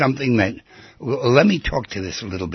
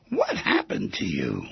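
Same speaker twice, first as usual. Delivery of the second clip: lower, softer, slowed-down question; 7 semitones lower, 6 dB quieter than usual. Shown as a demonstration. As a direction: hush it, slow and gentle. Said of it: "repeated question, varied delivery".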